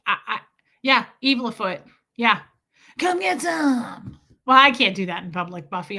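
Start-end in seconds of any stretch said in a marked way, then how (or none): 3.0-4.2 high, drawn-out eerie mock threat; scary threat. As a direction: stretch it out to spook someone. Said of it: "I'll scare people".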